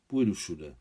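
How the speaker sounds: understated hard resolve; firm, hard. Acted. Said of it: "dodal tvrdě".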